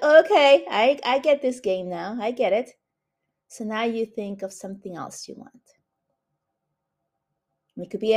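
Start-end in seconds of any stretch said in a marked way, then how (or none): 0.0-2.7 pleased realization. Acted. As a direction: voice the listener's happy dawning understanding. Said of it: "now you're beginning to think like".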